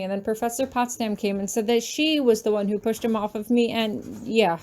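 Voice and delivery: words spat out in a hurry; rushing the confession to the professor. Acted. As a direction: get it all out before you lose your nerve. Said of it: "spit my words out in a rush".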